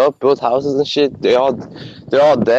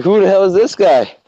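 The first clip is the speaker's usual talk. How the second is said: higher, incredulous "who the fuck"; indignant reaction; 5 semitones higher than usual. Retold or imitated. Reacting to the vegan video, higher incredulous scoff. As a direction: scoff at the screen in disbelief.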